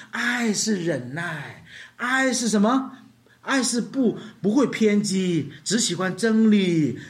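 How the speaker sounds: preacher booming out the love passage; preaching scripture. Acted. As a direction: proclaim every phrase of love.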